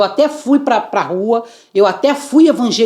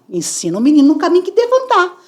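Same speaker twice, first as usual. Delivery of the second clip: preachy proverb; 8 semitones higher, faster than usual. Retold or imitated. Quoting a Bible proverb, preachy.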